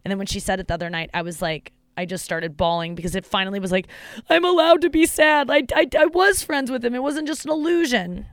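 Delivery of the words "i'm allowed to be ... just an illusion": high, cracking with emotion; emotional outburst. Retold or imitated. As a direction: relive the breakdown, voice rising. Reliving the moment she broke down.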